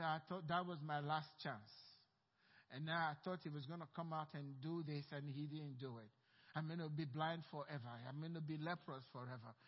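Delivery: low, quiet, sorry-for-yourself lament; self-pitying. Acted. Preacher voicing a doubter who didn't obey, low quiet self-pity. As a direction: moan about your lost chance, softly. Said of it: "feeling very sorry for yourself".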